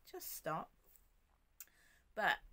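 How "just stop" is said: a soft, unhurried "Just stop."; a calm, softer take of the command; calmly. Retold or imitated. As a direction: let "Just stop." fall gently and calm. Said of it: "You know, calmly".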